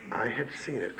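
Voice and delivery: hushed echo of the line before; quiet repeat. Real, not acted. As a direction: drop the voice right down on the repeat. Emphatic repeat, much softer.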